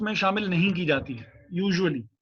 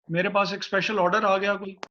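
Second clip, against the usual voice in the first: breaking up on a bad line; bad connection; faster than usual. Real, not acted. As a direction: voice cutting out over the call. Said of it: "आवाज़ कट रही है आपकी".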